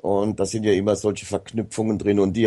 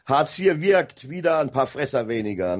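lightly ironic, higher-pitched slogan; ironic quote; 5 semitones higher than usual. Retold or imitated. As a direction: put a touch of irony on it. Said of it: "so Ironie an".

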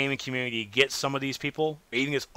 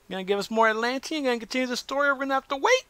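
questions climbing higher and higher; playful pleading questions; 12 semitones higher, faster than usual. Pretend. Quizzing the producer about new episodes, in climbing high questions. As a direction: push each question up into a high, eager pitch.

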